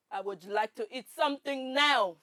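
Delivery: firm, stiff German accent attempt. Shown as a demonstration. Contestant answering the challenge in German accent. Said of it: "Say that with a German accent".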